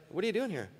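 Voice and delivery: like someone who truly doesn't know; a touch of bewildered asking for information; puzzled asking. Retold or imitated. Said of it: "not because God's looking for information".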